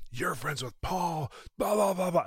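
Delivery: high, slow, sneering blah blah; mock the preachy friend brushing Paul off; dismissive friend. Friend on the phone mocking his friendship with Paul, sneering.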